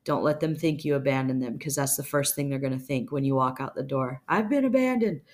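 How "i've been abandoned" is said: high-pitched cry of abandonment; mock distress. Imitating someone left as you walk out the door, mock distress. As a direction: voice their panic at being left, hammed-up. Voicing the abandoned person's thought.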